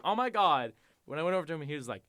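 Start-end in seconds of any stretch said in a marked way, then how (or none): 0.0-0.7 high, loud effusive squeal; mock camp gushing. Showing how the shop guy did not talk, loud camp gush. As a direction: squeal it in exaggerated Valley Girl delight. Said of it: "it's not like he was like".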